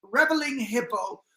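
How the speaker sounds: measured poem recital in hybrid British accent. Shown as a demonstration. Co-host reading the author's poem aloud, hybrid British accent. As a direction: declaim verse in a loosely British mixed accent. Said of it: "I did some kind of hybrid accent".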